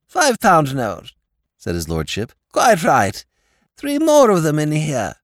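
a dim, friendly lord pleading his case; silly-ass lord. A narrator's reading. Lord Drever's voice.

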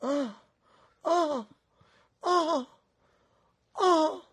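high, drawn-out moans; hammed-up pained moans; moaning. Rudolph moaning, tied up.

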